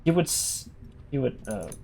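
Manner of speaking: Gol Gothaniel. Acted. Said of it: "In the words of Gol Gothaniel".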